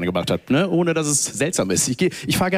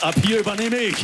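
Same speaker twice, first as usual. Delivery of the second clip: voice of centrifugal force; 6 semitones higher than usual. Retold or imitated. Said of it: "Fliehkraft sagt".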